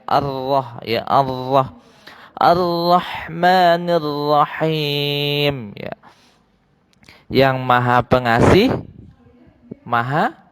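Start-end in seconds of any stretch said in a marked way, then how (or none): 2.4-5.7 Ar-Rahmanir-Rahim with the r between ra and ro; slow, thin ro sound in Ar-Rahmanir-Rahim; light ro. Shown as a demonstration. Teacher shows the thin Arabic r to pupils. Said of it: "jadi agak tipis ya".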